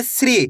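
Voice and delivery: श्री said as "sree", with plain s; teacher's model श्री, s and r joined; demonstrated SRI sound. Shown as a demonstration. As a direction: run s straight into ri in श्री. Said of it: "तो सा को कैसे पढ़ेंगे?".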